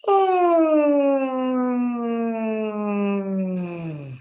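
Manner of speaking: long high yawn sliding down; yawn sigh. Shown as a demonstration. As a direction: warm up the voice with a long falling yawn. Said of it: "And give me a yawn".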